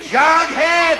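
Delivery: high, loud interrupting yell; exasperated shout. Acted. Father silencing son's talkative friend, exasperated shout. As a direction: cut off the chatter with his name. Father cuts off chattering boy.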